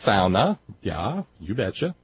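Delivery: playful sing-song Scandinavian accent. Shown as a demonstration. Host joking about Finnish words, mock Scandinavian accent. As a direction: put on a mock-Scandinavian lilt. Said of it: "it sounds more Scandinavian".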